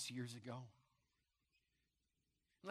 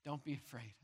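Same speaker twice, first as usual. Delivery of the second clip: gentle reassurance; 2 semitones lower, 6 dB quieter than usual. Retold or imitated. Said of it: "placed his right hand on me and said".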